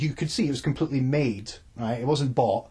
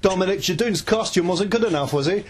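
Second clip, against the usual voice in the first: pointed, half-joking accusation, pitched up at the start; mock confrontation; 5 semitones higher, 3 dB louder than usual. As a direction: pretend to grill the judge sarcastically. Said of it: "Just gonna go".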